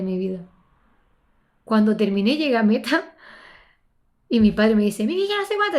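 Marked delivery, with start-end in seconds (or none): 5.1-5.8 father's voice. Retold or imitated. Father speaks at finish.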